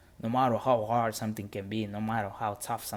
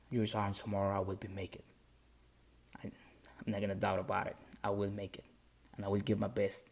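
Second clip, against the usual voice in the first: whispered, then soft and earnest vow; hushed promise; 2 semitones lower, 5 dB quieter than usual. Retold or imitated. To his drill sergeant before the test, a hushed vow. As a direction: quietly swear you'll make it.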